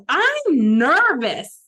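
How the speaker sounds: slow, loud, drawn-out nervous plea; mock-frightened old lady. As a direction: stretch each word like a scared passenger. Old lady quoted on plane.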